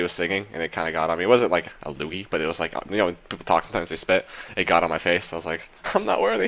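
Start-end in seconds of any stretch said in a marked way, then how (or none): 5.9-6.5 mock reverent. Joking reaction to being spat on.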